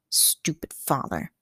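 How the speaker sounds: soft, slow unvoiced whisper of spite; under his breath. A narrator's reading. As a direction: hiss it so no one hears. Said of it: "he added under his breath".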